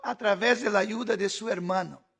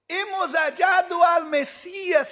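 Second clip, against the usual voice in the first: anuncio emocionado; 4 semitones higher than usual. Acted. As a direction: announce the Messiah excitedly, drawn out. Andrés anuncia al Mesías. (Andrés proclamando con alegría al hermano)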